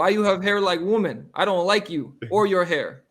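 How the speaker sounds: mock a hostile Russian's broken English. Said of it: "in pretty broken English".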